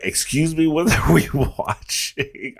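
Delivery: high, shocked, slow dad; dad's shocked voice. Retold or imitated. Son retelling dad's shocked question during a singer's film. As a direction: play the startled father. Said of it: "he was like".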